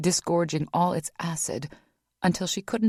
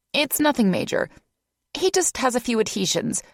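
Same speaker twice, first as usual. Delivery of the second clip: higher, louder cheerful nurse voice; pleasant nurse; 3 semitones higher, 4 dB louder than usual. Acted. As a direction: reassure while explaining. Nurse voice held.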